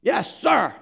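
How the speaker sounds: a loaded yes sir with hidden contempt; enlisted man answering his captain with a loaded yes sir; deadpan yes sir. Retold or imitated. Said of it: "looks him in the eye and says".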